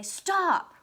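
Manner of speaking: high, loud order to halt; angry exclamation. Shown as a demonstration. Teacher showing an angry character's exclamation, angry. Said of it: "someone is angry in your story".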